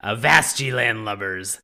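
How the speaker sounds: salty sea dog reading a tale; gruff old fisherman. Acted. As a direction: growl it like an old sailor. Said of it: "Very nautical of you".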